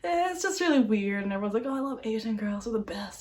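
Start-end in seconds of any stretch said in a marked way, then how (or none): 1.7-3.2 mocking whisper. Mocking what guys say.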